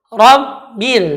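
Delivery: Rabbil with thick ra; heavy ra. Shown as a demonstration. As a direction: Rabbil said ro-bil. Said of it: "ketika membaca Rabbil". (Rabbil dengan ra tebal)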